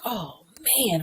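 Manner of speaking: soft, near-whispered reaction; hushed reply. Retold or imitated. Friend reacting to a dying man's plea, hushed. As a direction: let it out quietly, touched. Retold reply of moved listener.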